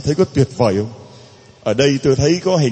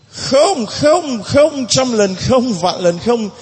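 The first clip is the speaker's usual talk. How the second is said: emphatic no; 7 semitones higher, much slower than usual. Acted. Preacher voicing Jesus' refusal.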